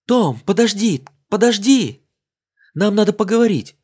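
high, loud call after him; крик вслед. Acted. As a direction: shout to stop him from afar. Женщина кричит вслед Тому. (громкий оклик издалека)

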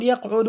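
يقعد said yaqʕudu, with u after the ʕayn; damma on يقعد. Shown as a demonstration. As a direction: give يقعد a short u in the middle. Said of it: "بالضم".

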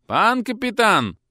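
high, loud, drawn-out call; calling through door. Acted. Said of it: "крикнули из-за двери".

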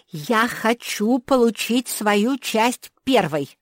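high, loud, slow spoiled shout; stamping-foot demand, slow and loud. A narrator's reading. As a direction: yell it like a spoiled child. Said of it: "закричала Нинон".

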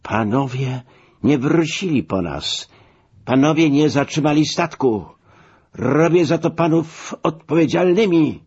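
high-pitched, outraged accusation; indignant exclaiming. A narrator's reading. Stranded man accusing those who left him at the pier, indignant exclaiming. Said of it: "wykrzykiwał, wskazując na Biesiadeckiego".

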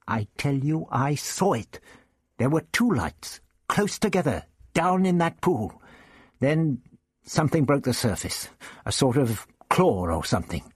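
the teacher Ian, outraged over his tie; indignant Ian. Acted. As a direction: Ian protests about his ruined tie. Ian insists.

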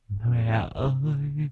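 very high, long-drawn ghostly wail; keen thinly, stretching each call; eerie wailing plea. A narrator's reading. Possessed son calls his mother to save him, eerie high wail.

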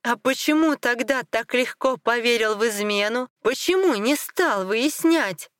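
high-pitched accusing questions; taunting challenge. Acted. Wife challenges his easy belief, high and accusing.

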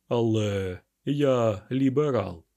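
slow, smiling aside. A narrator's reading. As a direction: say it with a sly smile, slowly. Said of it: "він посміхнувся". (посол повільно, з посмішкою про себе)

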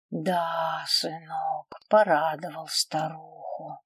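slow, drawn-out contented puffing; puffing old mother. A narrator's reading. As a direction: puff it out slowly after a big meal. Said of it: "пропыхтела мать".

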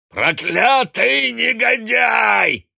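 high, loud, slow bellow; furious yell. A narrator's reading. Drunk father screaming at his son. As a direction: roar at him with hatred. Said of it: "завопил Гант".

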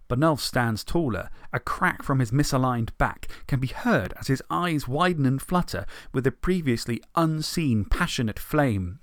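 even storyteller read; story narration. A narrator's reading. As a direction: narrate it steadily for listeners.

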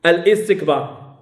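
"الاستكبار" slowly split as al-istikbar, glottal stop after al; hamza wrongly sounded. Shown as a demonstration. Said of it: "هاد الهمزة ما كايناش هنا". («الاستكبار» ببطء مع قطع الهمزة: أَلْ إِستكبار)

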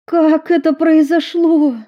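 high, loud anxious asking; frantic worry for a friend; alarmed, worried cry; worried question. A narrator's reading. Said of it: "взволнованно спросила Эмили".

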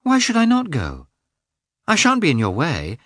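high-pitched indignant challenge; affronted wife standing her ground; offended. A narrator's reading. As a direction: argue back, stung, voice lifted. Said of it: "offended that he seemed opposed to".

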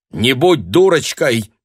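loud, slow, cutting reply; cold retort. A narrator's reading. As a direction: snap it back coldly. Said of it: "холодно отрезала Людмила". (холодно отрезать)

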